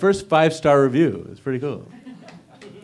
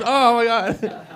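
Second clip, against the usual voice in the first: mock girlfriend gasp; 9 semitones higher, much slower than usual. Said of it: "She comes".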